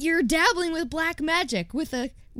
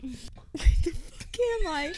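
whispering; 7 dB quieter than usual. Real, not acted. Bewildered whispered aside.

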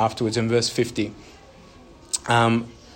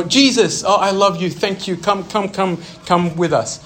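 higher and louder, fussing lovingly; doting mother; 5 semitones higher, 5 dB louder than usual. Pretend. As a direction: coax him along like a gushing mom.

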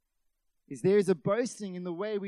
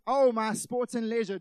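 mock arrogance; 3 semitones higher, 9 dB louder than usual. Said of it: "The arrogance of".

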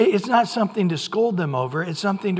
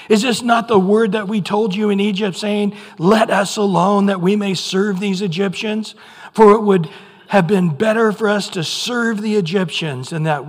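raised, louder griping at Moses; complaining Israelites; 5 dB louder than usual. Retold or imitated. Israelites complaining to Moses, louder and raised. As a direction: whine it at Moses, louder as it builds. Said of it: "They said to Moses".

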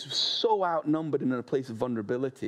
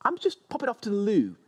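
lady at dinner; 9 semitones higher, faster than usual. Retold or imitated. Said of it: "All it takes is one lady to go".

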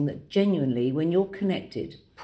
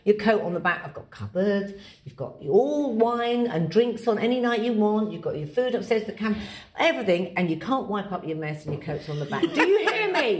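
scolding mother; 2 semitones higher than usual. Retold or imitated. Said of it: "That's the mother in you".

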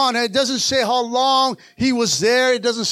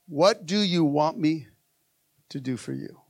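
gentle question; 8 semitones lower, 7 dB quieter than usual. Acted. Voices Jesus's question, then repeats.

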